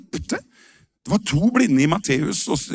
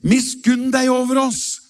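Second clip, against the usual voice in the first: crying out; 7 semitones higher than usual. Retold or imitated. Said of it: "så ropte de".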